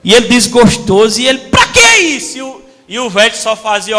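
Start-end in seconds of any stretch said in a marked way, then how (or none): 1.5-2.4 much higher, sulky complaint; high sulky kid voice; whiny boy. Retold or imitated. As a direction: protest like a fed-up kid.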